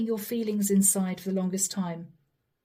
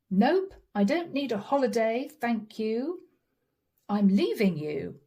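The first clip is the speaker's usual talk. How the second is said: firm refusal. Retold or imitated. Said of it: "says Sag".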